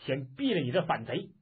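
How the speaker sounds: understated furious call; angry yell. Acted. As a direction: threaten the rebel in anger. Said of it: "叫道".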